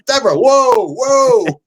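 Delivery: high, loud calming call; husband stopping his wife mid-argument; urgent hold on. Retold or imitated. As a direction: rein her in fast.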